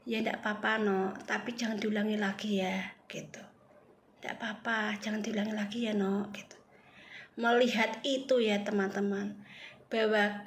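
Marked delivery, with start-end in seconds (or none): 0.0-2.9 gentle mother forgiving her son; tender mother. Retold or imitated. Dia berkata. 4.2-6.3 soft whispered forgiveness from the mother; gentle mother forgiving her son; tender mother. Retold or imitated.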